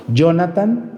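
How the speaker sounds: "Jonathan" slowly, starting with a Y; Y pronunciation. Shown as a demonstration. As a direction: say "Jonathan" as YO-na-tan. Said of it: "Jonathan es con Y".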